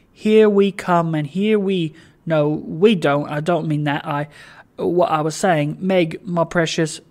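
lightly voiced flustered father, bright start then faltering; Trotty, flustered and rambling. Father losing his thread before his daughter, mildly flustered. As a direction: start loud and merry, then backtrack.

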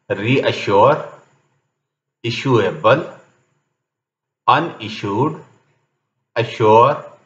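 word list read singly, a sheen "sh" in "इशू"; double S as "sh". Shown as a demonstration. Teacher giving examples of the SSU rule, "फिशर" said with sh. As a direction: say the double S in "प्रेशर" as sh. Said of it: "तो शीन की आवाज पैदा होगी".

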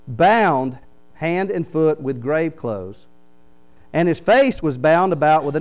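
very slow, "Bound" leaned on; slow emphatic reading. Shown as a demonstration. Preacher reads King James to congregation, very slow. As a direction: drag it out to feel the binding. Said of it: "that sounds a lot stronger".

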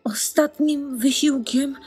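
barely above a whisper; hushed narration. A narrator's reading. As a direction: tell it in a faint, drained hush. Exhausted duckling hides in snow.

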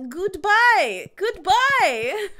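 high, emotional farewell; loud goodbyes thinning into a high, teary bye; a little teary. Real, not acted. Player bidding the last Junimos farewell, a little teary. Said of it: "I'm a little teary".

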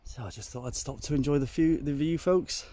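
breathless from the climb; out of breath. Real, not acted. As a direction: talk while catching your breath. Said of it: "Nothing to do with the fact that I'm out of breath".

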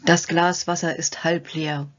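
slow, heavy, defeated "Das Glas Wasser ist halb leer"; gloomy pessimist. Shown as a demonstration. Demonstrating a hindering thought to the viewer, slow and gloomy. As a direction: sigh it out like someone who has already given up. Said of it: "die hinderlichen Gedanken".

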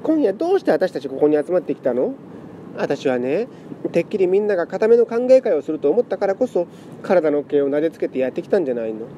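tearful pleading. Acted. Lament cat pleads emotionally.

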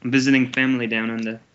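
put-on Australian accent. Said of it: "doing an Australian accent the whole time".

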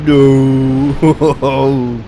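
long, loud wail of no; dismayed cry. Real, not acted. Player's plan goes wrong, long loud dismay. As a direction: drag it out loudly, breaking into laughter. Mishap in the game.

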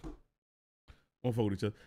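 low, slow muttered warning to a friend; slow low muttered repeat. Real, not acted.

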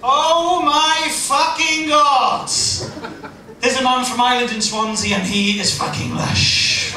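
high, loud, slow squeal of delight; excited Welsh girls. Retold or imitated. Swansea girls swooning over an Irishman, loud and high. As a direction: shriek it like a thrilled girl. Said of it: "the girls all just did this".

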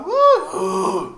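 lightly done cracking yelp; mock voice-crack neigh. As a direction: mimic a teen voice breaking like a horse neighing. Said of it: "Quando ele parar o relincho".

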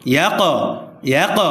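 "ইয়াক" with the final q released in a short bounce; echoing qalqalah. Shown as a demonstration. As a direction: let the q ending "ইয়াক" echo briefly. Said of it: "প্রতিধ্বনি আওয়াজ দিয়ে পড়তে হবে".

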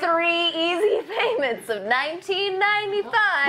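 home shopping host. Pretend. Mock infomercial pitch.

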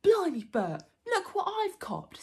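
loud, high troll exclamation; troll William, astonished. Acted. Troll showing Bert his catch, astonished. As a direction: crow loudly over a surprise catch.

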